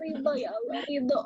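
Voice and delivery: acted tearful surrender; pasrah sambil menangis. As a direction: surrender to God as if crying. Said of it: "Sampai nangis". (berserah dengan suara seperti menangis)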